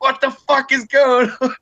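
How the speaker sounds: high-pitched mock panic; retold alarm. Asking his nervous buddy in the car, mock panic.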